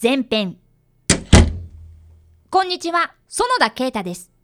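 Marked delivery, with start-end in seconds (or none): 0.0-0.6 slow, formal episode title read; episode title announcement. Acted. Keita announcing the episode title, slow formal read. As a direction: announce the episode slowly and clearly.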